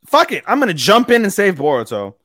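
loud, high, impulsive declaration; acted heroic resolve. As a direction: throw yourself into the character's sudden decision. Acts out character's sudden heroic decision.

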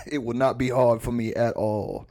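lightly drawled action-star boast; mock tough-guy confidence; Steven Seagal impression. Co-host bragging as the action star, drawled impression. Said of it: "If you do Steven Seagal's voice".

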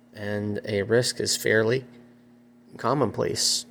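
speaking through hiccups; words broken by hiccups. Real, not acted. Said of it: "Sorry, I have the hiccups".

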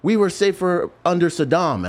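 high, loud outraged father; angry Iraqi dad. Retold or imitated. Irate father yelling at soldiers kicking in his door, high and loud. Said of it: "he said".

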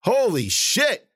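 high, loud, slow amazed yell; excited yell. A narrator's reading. Ben yelling to Cece in amazement, excited. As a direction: stretch it out in disbelief. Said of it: "Ben yelled to Cece".

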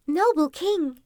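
high, proud address to royalty; courtly fox. A narrator's reading. Fox presenting wolves to the king, courtly.

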